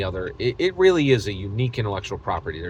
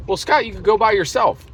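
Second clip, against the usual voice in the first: a hint of a higher, louder mock listener; lightly voiced smug listener; imagined retort; 11 semitones higher, 5 dB louder than usual. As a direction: toss it off as a know-it-all.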